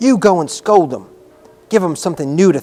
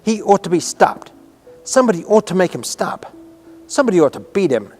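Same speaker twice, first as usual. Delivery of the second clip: indignant higher-pitched outcry; cried out; 5 semitones higher than usual. A narrator's reading. Girl cries out against the screaming boy, indignant outcry. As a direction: cry out in protest. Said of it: "she cried out".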